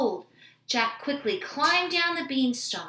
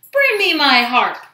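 loud, raised roar that falls away; giant's roar; 5 semitones higher, 14 dB louder than usual. A narrator's reading. Giant demands his harp from the cook, roaring. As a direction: bellow the order like a giant. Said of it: "roared the giant".

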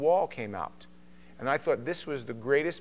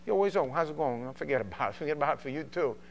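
Queens street greeting in New York accent; faster than usual. Shown as a demonstration. Showing how Queens talks, New York accent. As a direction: rattle it off like a New Yorker. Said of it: "This is how we talk".

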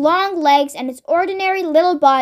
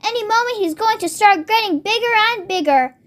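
higher, lightly acted eagerness; excited anticipation; 5 semitones higher than usual. Mister Cranky waiting for the cockerel to grow, excited. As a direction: build expectation with lifted pitch.

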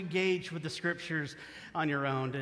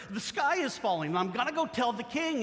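mock panic; 6 semitones higher than usual. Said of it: "her friend freaks out".

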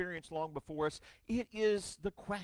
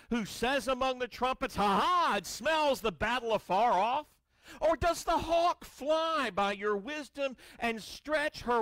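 voice of God; 5 semitones higher, 3 dB louder than usual. Acted. Preacher voicing God to Job.

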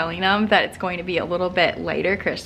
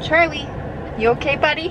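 higher sweet voice for a dog; pet-talk voice; 8 semitones higher than usual. Real, not acted. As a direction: ask the dog kindly. Checking on her dog.

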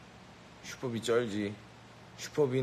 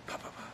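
soundless punches; 13 dB quieter than usual. Pretend. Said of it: "소리 안 나게 방금 때렸어".

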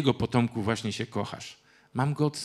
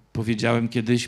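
usual speaking voice

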